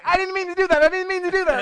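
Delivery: high, loud, laughing mock apology; hammed-up embarrassed apology; mock flustered. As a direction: play the caught-out worker, flustered. Mocking the embarrassed store worker.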